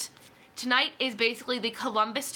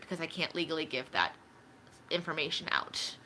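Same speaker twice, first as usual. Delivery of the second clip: whispering; 6 semitones lower, 7 dB quieter than usual. Real, not acted. Can't legally share income info.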